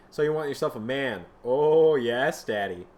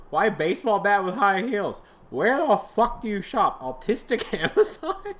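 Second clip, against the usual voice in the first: mocking higher jeer; 7 semitones higher, 4 dB louder than usual. Mocking outfit with high voice.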